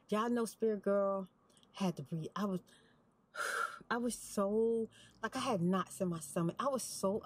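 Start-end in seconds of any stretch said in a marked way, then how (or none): 0.1-2.3 sighing. Real, not acted.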